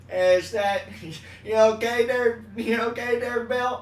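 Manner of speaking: loud, high yelling voice; Chris Farley impression. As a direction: bellow it like a big sweaty guy. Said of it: "Do the loud Farley".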